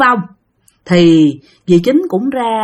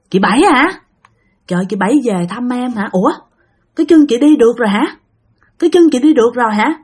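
surprised questions, mostly higher and quick; lightly voiced grandmother; 3 semitones higher, faster than usual. Grandmother greets her visiting late sister, mildly acted surprise. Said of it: "tự nhiên bạn nghe ngoại nói chuyện".

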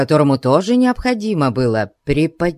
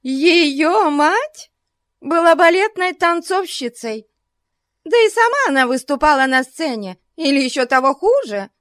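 high, quick scornful retort; retorting spitefully; 13 semitones higher than usual. A narrator's reading. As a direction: snap back with disdain. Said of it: "возразила миссис Бьют". (язвительно возражая)

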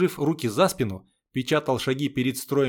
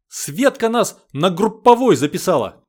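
breathless excitement; 6 semitones higher, 8 dB louder than usual. Acted. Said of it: "выдохнула Машка и засмеялась".

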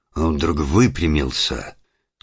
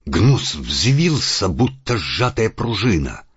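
rising tension; 7 semitones higher, 3 dB louder than usual. A narrator's reading. Narration of sudden murder.

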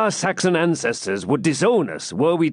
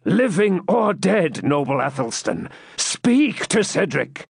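high-pitched urgent entreaty; dramatic plea to the dead; awestruck adjuration; 8 semitones higher than usual. Acted. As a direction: beg the spectre to speak, voice lifted high. Cedric beseeches supposed ghost.

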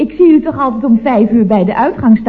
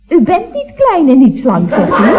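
laughing through a flustered correction; nervous giggle, caught out; embarrassed laugh; 3 semitones higher than usual. Acted. Operator laughing nervously at the wife's correction.

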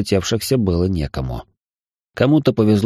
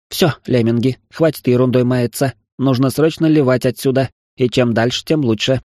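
lightly voiced, higher commanding woman; bossy female officer; 4 semitones higher than usual. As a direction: order the crew around in a slightly raised voice. Figure of Устюжева speaking. (командный женский голос, чуть выше обычного)

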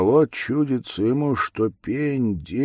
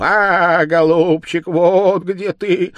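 higher, louder bleat, slow "вот"; bleating ram's head; 9 semitones higher, 9 dB louder than usual. Acted. The ram's head in the tree mocks grandpa, bleating. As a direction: bleat the words like a ram. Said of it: "заблеяла баранья голова".

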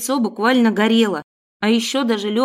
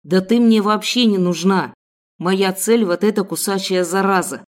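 angry kidnapper. Acted. Kidnapper snaps at girl.

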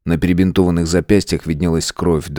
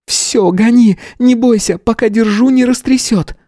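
much higher, louder urging; urgent command; 4 dB louder than usual. A narrator's reading. Tanya urgently tells Matvey to drive. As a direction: urge him on.

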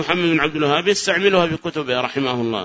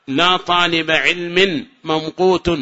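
slow, measured example; slow teacher's reading; slow recital; slower than usual. Shown as a demonstration. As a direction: read the example slowly. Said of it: "recites example slowly".

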